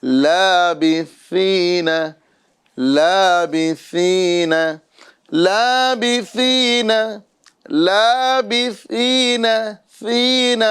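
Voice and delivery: لابثین with a crisp s-like ث; recited seen letter; clear seen sound. Shown as a demonstration. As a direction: stress the سین in لابثین. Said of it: "یہاں پہ سا آ رہا ہے".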